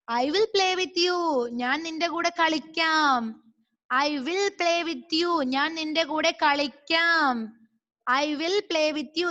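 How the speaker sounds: slow sing-out of each phrase, vowels stretched; model reading. Shown as a demonstration. Sister tells baby she will play with him, slow model reading. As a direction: draw out the line and its translation for learners. Reads and translates sister's line slowly.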